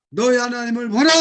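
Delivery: loud preacher's cry; shouted proclamation. Shown as a demonstration. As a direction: lead the cry together. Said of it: "소리를 높여 외쳐야 돼요".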